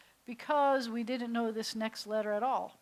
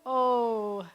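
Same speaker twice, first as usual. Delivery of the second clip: louder "oh" as the ball sails overhead; mock surprised oh; 6 dB louder than usual. Shown as a demonstration. Teacher acts Mister Vav watching ball fly overhead, surprised. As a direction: say "oh" like you watch it fly past you. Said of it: "pitches it over your head".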